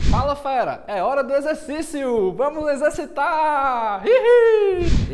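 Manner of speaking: high cutesy voice with a giggle; bubbly, cute and loud, ending in a giggle; breathy cutesy giggly. Acted. Exercise segment jingle-like intro. (voz fofa e sussurrada com risadinha)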